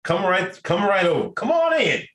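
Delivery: high, welcoming mock call; mock welcoming host. Mocking Biden welcoming refugees in. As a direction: wave them in with a mock shout. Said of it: "Biden, just straight from the office".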